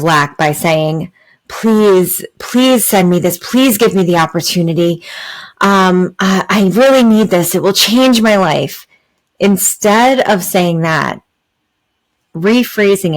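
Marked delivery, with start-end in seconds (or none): 1.5-8.9 begging. Shown as a demonstration. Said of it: "a place of begging".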